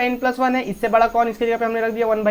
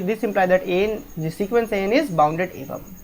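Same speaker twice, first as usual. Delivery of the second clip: slow dictation; much slower than usual. Shown as a demonstration. Teacher dictating the proof line.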